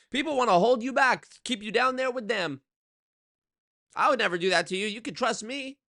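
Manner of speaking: high, loud, far-off put-on voice; hammed-up smarmy upline pitch; MLM guru voice. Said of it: "get up on stage or on Zoom calls and say".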